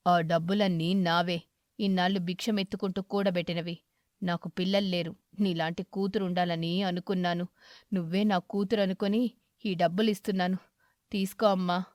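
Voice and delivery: kindly aged beggar, content; grateful old eagle. Acted. Eagle character voice.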